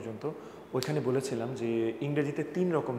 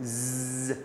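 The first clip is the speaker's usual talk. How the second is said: buzzing z sound; 6 dB quieter, much slower than usual. Shown as a demonstration. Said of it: "উচ্চারণ ইংরেজি শিখেই থাকতে হবে".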